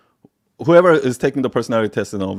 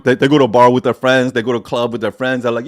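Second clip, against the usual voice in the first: normal talking voice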